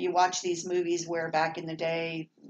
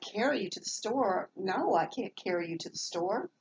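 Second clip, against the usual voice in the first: mock incredulous reply; 3 semitones higher than usual. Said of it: "And I'm like".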